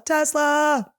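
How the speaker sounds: high, drawn-out yelled "Tesla!"; comic shouted goal at the big moment; mock climax yell. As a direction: call out like Stanley yelling for Stella. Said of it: "instead of Stella".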